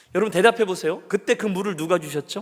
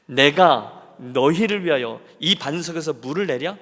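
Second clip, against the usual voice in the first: irritated Moses; slower than usual. Retold or imitated. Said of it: "신경질적으로 친 거죠".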